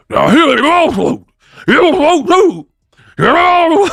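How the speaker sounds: high, loud creepy clown taunt; Pennywise impression. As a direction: sing it out like a killer clown luring kids. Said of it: "I can't even get the impersonation".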